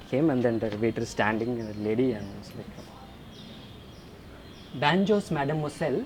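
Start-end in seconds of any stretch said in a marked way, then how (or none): 4.8-6.0 put-on botched French turned Indian accent, laughing; Indian accent slipping out. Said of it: "it opened floodgates to that accent".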